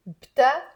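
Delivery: بتعملي as separate beats, bta-am-le; careful بتعملي with B joined to T; three-syllable drill. Shown as a demonstration. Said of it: "One more time".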